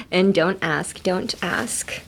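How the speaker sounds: don't ask with no T, toʊ̃nt æsk fading off; silent T. Shown as a demonstration. Teacher repeats don't ask with the T dropped. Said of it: "The T is silent".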